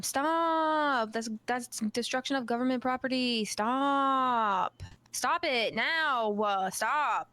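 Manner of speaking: mock yell with drawn-out stops. Player ordering a deputy to stop, mock yelling. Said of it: "I yell at him".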